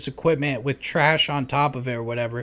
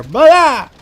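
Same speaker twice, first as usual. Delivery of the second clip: imitated sudden shout; 12 semitones higher, 14 dB louder than usual.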